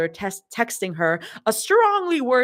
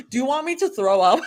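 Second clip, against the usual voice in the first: laughing protest; 7 semitones higher, faster than usual. Acted. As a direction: laugh through the outburst.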